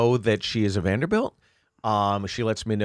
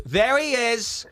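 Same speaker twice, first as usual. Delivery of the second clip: higher, slow mock accusing woman; 11 semitones higher, slower than usual. Woman at the bar spotting the comedian, mock accusing. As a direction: point him out, drawn out. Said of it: "She goes".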